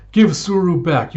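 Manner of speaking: mock furious shout; angry demand. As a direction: shout at the mountain god. Fighting the god.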